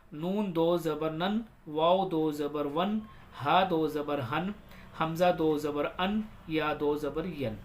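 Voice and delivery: slow, measured sing-song drill; spelling recitation. Shown as a demonstration. Teacher leading learners through do zabar, measured recitation. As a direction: chant each letter, then its sound.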